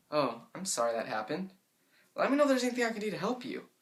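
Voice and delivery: rattled off fast, careless; dismissive and rushed. Shown as a demonstration. Friend brushing off someone's bad news, fast and careless. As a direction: brush them off quickly. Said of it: "much rather hear that sympathetic voice than".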